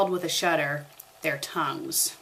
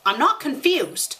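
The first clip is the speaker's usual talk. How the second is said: high, louder protest; cried out; 8 semitones higher, 4 dB louder than usual. A narrator's reading. Harry protesting to Ginny, in a high loud cry. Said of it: "Harry cried".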